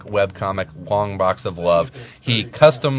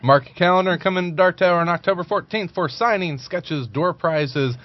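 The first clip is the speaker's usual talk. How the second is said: event promo; 7 semitones higher than usual. Acted.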